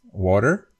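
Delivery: water with flapped T and final R; American flapped T. Shown as a demonstration. Teacher demonstrates American water, flapped T. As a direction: tap the middle of water, curl the R. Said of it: "you have the flopped T".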